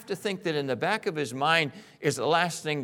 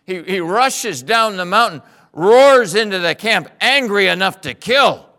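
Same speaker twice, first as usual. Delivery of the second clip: dramatic build; 10 dB louder than usual. A narrator's reading. Preacher dramatizes Moses' charge.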